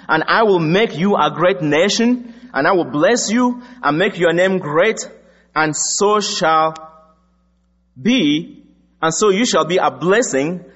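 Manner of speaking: scripture reading. Acted. Preacher reads Genesis twelve to the congregation, solemn and steady. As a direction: read the promise to Abram with weight, like a sermon text.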